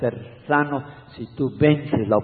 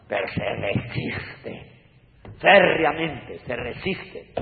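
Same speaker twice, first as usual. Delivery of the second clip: slow emphasis; 3 dB quieter, much slower than usual. Acted. Slowed emphatic warning.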